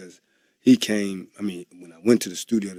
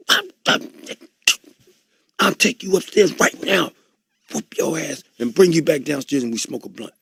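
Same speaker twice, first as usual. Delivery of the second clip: loud, high mock threat; hammed-up drunk bravado; drunken threat; 7 semitones higher, 5 dB louder than usual. To a rapper at the video shoot, loud mock threat.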